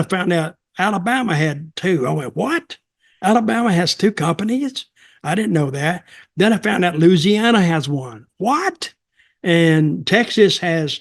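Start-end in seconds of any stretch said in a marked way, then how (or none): 2.4-6.0 high, mock-astonished "What?" then settling down; retold surprise. Retelling his own surprise at companies. 8.4-8.9 a sharp high mock-astonished "What?"; retold surprise. Retelling his own surprise again.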